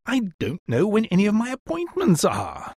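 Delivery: high-pitched helpless complaint; despairing. A narrator's reading. Helpless son lost without Eliza, high and despairing. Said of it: "cried Higgins in despair".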